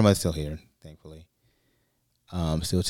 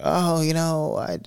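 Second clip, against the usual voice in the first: high, louder mock scolding of a husband; retold yelling; 8 semitones higher, 4 dB louder than usual. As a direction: rant at him in a raised, high voice. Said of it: "yelling at my grandfather".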